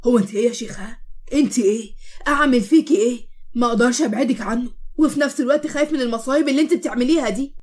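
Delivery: angry. Acted. Moatasem angrily scolding Eshq, exasperated. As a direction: scold her, fed up and torn. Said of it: "بكل غضب".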